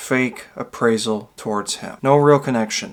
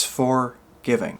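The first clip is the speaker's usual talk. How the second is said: "for giving" as two separate words; "for", a beat, then "giving" to show the meaning; pause between words; 3 dB quieter, slower than usual. Shown as a demonstration. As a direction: leave a clear gap between FOR and GIVING. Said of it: "That's what it's meant for".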